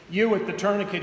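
mild call across the market. Acted. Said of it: "he called".

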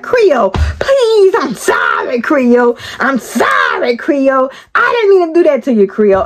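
high, whiny begging apology; mock pleading Loco. Loco begging Creole at work, whiny pleading apology. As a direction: beg forgiveness in a sing-song whine. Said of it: "he was just like".

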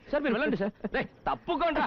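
suddenly high-pitched, grovelling politeness; bow and scrape before the big man; a servant eager to please his boss; fawning servility. Acted. Cop suddenly fawns over released man.

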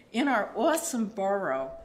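awesome in a broad Queens accent. Shown as a demonstration. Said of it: "which in Queens we say awesome".

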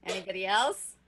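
ordinary talk, nothing marked

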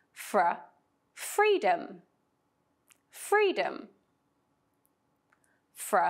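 "floor", "conflict", "influence", "from", "freedom", "frequently" said slowly and carefully; model words. Shown as a demonstration. Teacher modelling blend words for students to repeat. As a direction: say each word crisply for repetition. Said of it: "Listen carefully and repeat after me".

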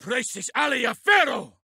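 battle spell called out; shouted incantation. Acted. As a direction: hurl the charm at the foe.

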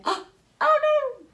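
sudden high cry of dismay; dismayed gasp. A narrator's reading. Reading to kids, reacts in shock as the child breaks the plant.

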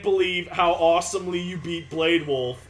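low, measured mock-serious delivery; deadpan game dialogue. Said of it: "much funnier when you say it like that".

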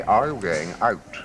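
slow, careful standard English "I'm going out", every consonant crisp; slow, precise received pronunciation "I'm going out". Shown as a demonstration. Showing a child the standard English he learned, slowly and carefully. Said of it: "I had to learn to say".

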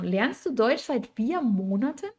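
"Lernst du Deutsch seit vier Monaten" with swooping, disbelieving intonation; surprised question. Shown as a demonstration. Teacher demonstrating a doubting tone, mildly surprised. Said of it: "Podría ser en ese tono".

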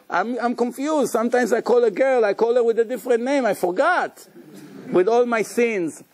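a hint of a flustered charmer pleading; vain handsome man. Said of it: "they say".

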